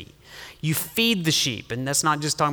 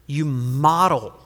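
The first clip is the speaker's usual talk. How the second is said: ordinary talk, nothing marked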